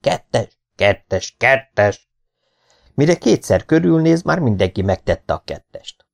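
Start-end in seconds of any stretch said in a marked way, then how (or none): 0.0-2.1 short repeated calls, lightly varied; mimicked chain of tipsters; rumour passing round. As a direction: pass the word along, one mouth to the next. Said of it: "Szájról szájra jár a hír".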